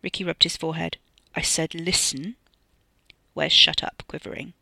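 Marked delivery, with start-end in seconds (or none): 1.3-2.3 whispering. A narrator's reading. Ricky silencing Wes.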